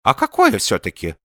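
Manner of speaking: put-on mildly insistent old man's question. A narrator's reading. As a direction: insist on an answer, pitched a little high. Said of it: "настаивал старик".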